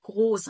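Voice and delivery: جروس with hard g, long o, said loudly; loud German "groß" for جروس; hard G sound. Shown as a demonstration. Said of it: "بيبقى صوت الجيم". (نطق جروس بجيم مصرية)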